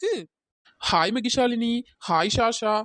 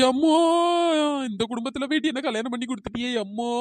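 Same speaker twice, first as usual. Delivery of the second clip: hammed-up mourning wail; mock ஒப்பாரி calling on her mother; overdone crying to guilt her husband; fake wailing lament; 3 dB louder than usual. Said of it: "கழுதை எப்படி ஒப்பாரி வைக்குது பாரு".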